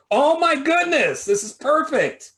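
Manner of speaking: a hammed-up Aussie gush, drawn out; terrible Australian accent. Host mocks his own terrible Australian accent. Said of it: "that was a terrible, terrible Australian accent".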